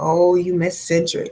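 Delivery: ordinary delivery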